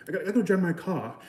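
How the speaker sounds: amateur English accent. Shown as a demonstration. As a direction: try an English accent, quickly. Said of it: "good at the English accent".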